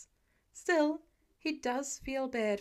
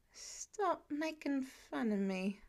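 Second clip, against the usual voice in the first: slurred; 5 dB quieter, much slower than usual. Acted. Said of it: "he slurs".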